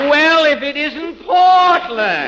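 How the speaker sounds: high, slow, drawn-out feigned amazement; mock surprise. Fred Allen greeting Portland with hammed-up, drawn-out surprise.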